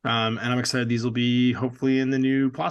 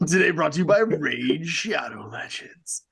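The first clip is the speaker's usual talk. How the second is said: mock official announcement; 3 semitones higher, slower than usual. Mock sponsor intro on podcast.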